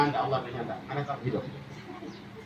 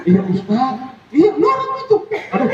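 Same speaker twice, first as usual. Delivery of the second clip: eager high reply; 7 semitones higher, 4 dB louder than usual. Acted. Acted villager answering the preacher.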